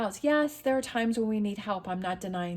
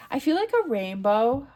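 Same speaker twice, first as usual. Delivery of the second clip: louder, bright burst of joy; excited; 4 semitones higher, 7 dB louder than usual. Real, not acted. Reader choosing a comment emoji for viewers, excited. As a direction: announce it with delight. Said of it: "what do we wanna leave?".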